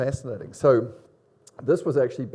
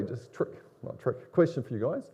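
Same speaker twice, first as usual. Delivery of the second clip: under-the-breath correction to the students; whispered aside; 5 dB quieter than usual. Real, not acted. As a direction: drop to a whisper to correct yourself.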